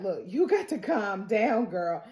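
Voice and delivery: firm calming. Retold or imitated. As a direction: talk her down quietly. Character calming a panicking woman.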